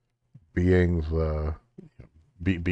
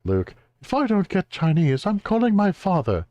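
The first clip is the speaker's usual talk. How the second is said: put-on high, spoiled girl threatening; bratty girl voice; 11 semitones higher than usual. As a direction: whine it like a spoiled kid. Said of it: "And she says".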